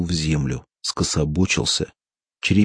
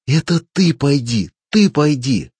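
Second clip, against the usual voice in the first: higher, louder, stung yell; angry shout; 7 semitones higher, 5 dB louder than usual. A narrator's reading. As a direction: throw it right back at him. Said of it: "закричал Клапос".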